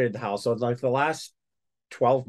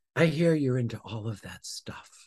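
soft, very quiet, hushed voice; 4 dB quieter than usual. Retelling what an older woman said when she came up to him, imitating quiet speech. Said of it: "she said very quietly".

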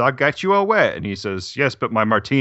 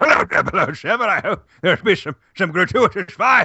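put-on comical, absurd British accent, pitched up; 9 semitones higher than usual. Imitating a film character after another speaker mentions his ridiculous British accent. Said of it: "he's got a ridiculous British accent".

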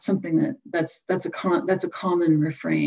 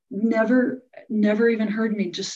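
normal talking voice

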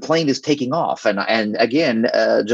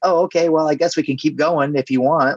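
put-on casual, offhand, unapologetic tone, pitched higher; 5 semitones higher than usual. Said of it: "there was zero apology".

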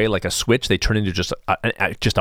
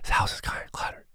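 hushed, breathy, very quiet near whisper. Illustrating a passing thought someone might hear at home, much quieter voice. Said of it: "it might just be like a lot quieter than that".

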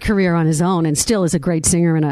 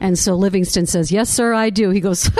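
plain

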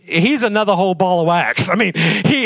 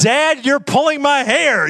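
play-acted high-pitched kid's protesting yell; 6 semitones higher than usual. Retelling how the boy yelled at his dad: imitating a boy yelling. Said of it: "he's yelling out".

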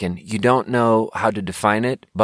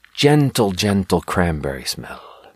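English in a put-on Finnish accent. Listing grocery store items, saying this one in a Finnish accent. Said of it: "That's a Finnish accent for anyone wondering".

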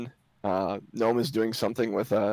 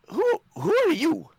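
small female gnome voice, much higher, louder; 4 dB louder than usual. Narrator voicing a gnome who opens the door to strangers, small female gnome voice. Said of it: "This little female gnome".

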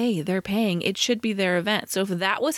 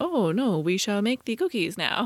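put-on French accent. Recalling Jean Smart as the invisible cook, quoting her in her fake French accent. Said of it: "she uses this fake French accent".

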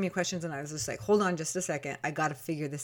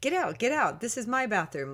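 put-on silly, high, sing-song playful teasing; 5 semitones higher than usual. A mother retelling her son's words when she walked into the bathroom, imitating silly joking. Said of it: "joking and being silly".

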